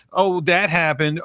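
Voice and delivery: lightly mocking quip; sarcastic. Mocking modern film dialogue, sarcastic. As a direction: toss it off like glib movie banter. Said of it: "just very sarcastic".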